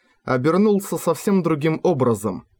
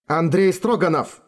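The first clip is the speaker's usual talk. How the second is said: higher, sharp barked name; 5 semitones higher than usual. A narrator's reading. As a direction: bark the name across the court. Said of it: "рявкнула бабушка". (рявкнула, резко и громко)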